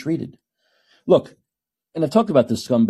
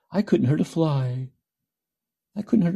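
Hannibal Lecter; 6 semitones higher than usual. Retold or imitated. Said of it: "that Hannibal Lecter way of speaking".

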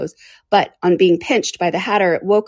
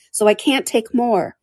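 higher, slow, mildly affronted; drawn-out, slightly huffy reply; offended; 5 semitones higher, slower than usual. Acted. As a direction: spell it out with hurt dignity. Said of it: "replied in an offended tone".

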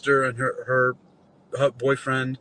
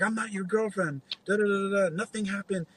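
imitating her, pitched higher; mock-shrill brush-off in her voice; indignant denial; 7 semitones higher, 4 dB quieter than usual. Imitating the woman denying him in front of husband.

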